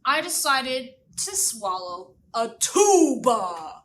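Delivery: slow drawn-out worm voice. Acted. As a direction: say it slowly like a sheepish worm. Herman's slow put-on voice.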